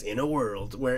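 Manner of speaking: a light take on the epic trailer voice; movie trailer voiceover. Retold or imitated. Quoting Lake Bell's trailer voiceover, lightly imitating it. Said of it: "She's, like, a voice".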